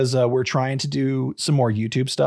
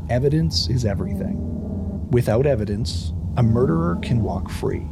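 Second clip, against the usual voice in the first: dramatic narration. Acted. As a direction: build tension over the music. Dramatic true crime intro.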